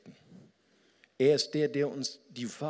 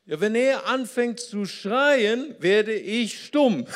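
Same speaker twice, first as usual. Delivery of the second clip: high, very loud mock outburst; acted quarrel shout; 9 semitones higher, 10 dB louder, slower than usual. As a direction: yell it slowly, stretching the words in exaggerated protest. Acted quarrel, retold disputant. (laut gespielter Streit, schreiend)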